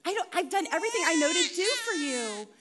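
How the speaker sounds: put-on frazzled mother at wit's end; exasperated pleading. Mother to her crying baby, exasperated pleading. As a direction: plead helplessly, dragging out "hours".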